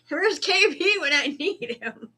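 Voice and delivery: high squeaky mock panic. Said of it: "and I'm like".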